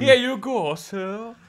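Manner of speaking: polite waiter. Acted. Waiter handing a diner one pasta, polite. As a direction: serve the dish like a waiter.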